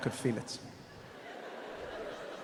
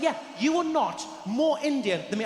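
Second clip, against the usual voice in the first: "are not" stressed, higher; insistent challenge; 5 semitones higher than usual. Retold or imitated. Steve disputes who is more Indian, insistent. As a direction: lean hard on "are not".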